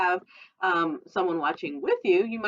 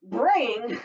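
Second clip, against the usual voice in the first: mock bray; 4 semitones higher than usual. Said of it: "no, that's a donkey".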